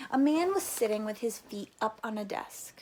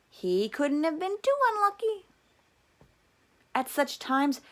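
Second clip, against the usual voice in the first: higher, louder, hopeful mother insisting; mother's voice; 7 semitones higher, 4 dB louder than usual. A narrator's reading. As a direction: play the mother defending the family. Mother's voice again.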